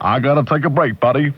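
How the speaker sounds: low-pitched mock American radio voice; American accent. Host signing off to his butler, mock American. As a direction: put on a chummy American accent. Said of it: "old good proverbial American voice".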